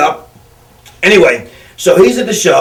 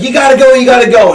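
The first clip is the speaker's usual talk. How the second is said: mock panic; 5 semitones higher than usual. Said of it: "Paulie's freaking out".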